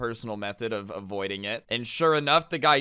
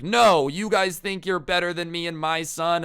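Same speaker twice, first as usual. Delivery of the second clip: raised, higher voice of protest; mock indignant dad; 5 semitones higher, 5 dB louder than usual. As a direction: lightly imitate an outraged father. Dad's angry retort to skaters.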